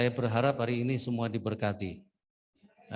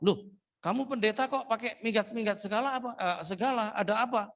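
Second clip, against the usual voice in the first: a much higher, incredulous "loh"; mock astonishment; 10 semitones higher than usual. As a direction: sound baffled at the pastor. Retold own astonished reply. (heran setengah bercanda)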